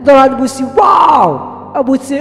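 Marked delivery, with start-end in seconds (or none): 0.8-1.7 high, drawn-out wow; stretched awe, acted; amazed. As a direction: exclaim in playful wonder. Characters amazed at splashing waves.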